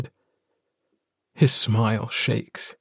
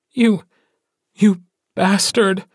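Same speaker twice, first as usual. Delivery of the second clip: much higher, louder enraged insult; wife raging at her mate who left; 9 semitones higher, 3 dB louder than usual. A narrator's reading. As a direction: let the rage break through. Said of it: "She gives in to her rage".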